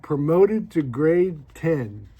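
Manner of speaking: slow reading out. Retold or imitated. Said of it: "he says".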